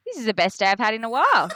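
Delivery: fast, laughing, bright with relief; rushing out happy words; excited. Retold or imitated. Telling the therapist about her great day, fast and laughing.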